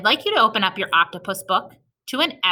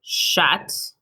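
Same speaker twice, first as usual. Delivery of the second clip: slow, word by word dictation; much slower than usual. Shown as a demonstration. Teacher dictating to kids word by word slowly. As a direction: say each word slowly for writing. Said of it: "you're going to write".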